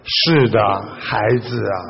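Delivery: soft, low reassurance; tender master. Acted. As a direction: answer gently, dropping the voice. Master tenderly answers the young man. (慈祥地轻声回答)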